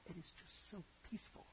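soft whisper, almost breathless with calm; hushed whisper. Real, not acted. Preacher savoring the peaceful painting for listeners: whispered. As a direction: let the peace hush your voice.

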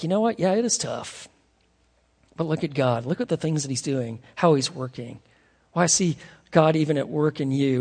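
soft encouraging voice; encouraging friend. Retold or imitated. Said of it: "Spirit-filled people are the ones that are speaking like this".

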